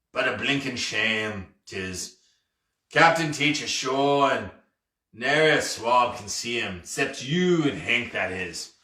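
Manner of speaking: lightly voiced pirate feeling sorry for himself; a touch of doleful old sea dog; mournful pirate captain. Pirate lamenting that nobody sees him, mildly mournful.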